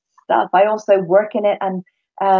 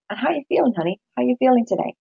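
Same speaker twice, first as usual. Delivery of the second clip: gentle, caring question; 4 semitones higher, faster than usual. Retold or imitated. Therapist gently asking a client how they feel, tender voice. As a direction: coax them like a kind therapist. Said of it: "I'll just kinda go".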